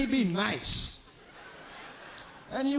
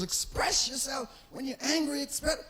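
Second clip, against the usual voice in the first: imitating wife; 5 semitones higher, 3 dB quieter than usual. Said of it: "My wife always says".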